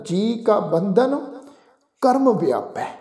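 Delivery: ਬੰਧਨ said fully as bandhan, not band; correct pronunciation. Shown as a demonstration. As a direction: model ਬੰਧਨ with the final n joined on. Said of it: "ਇੱਥੇ ਸ਼ਬਦ ਬਣੇਗਾ ਜੀ ਬੰਧਨ".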